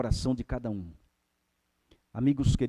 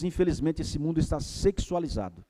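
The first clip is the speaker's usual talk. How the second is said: ordinary talk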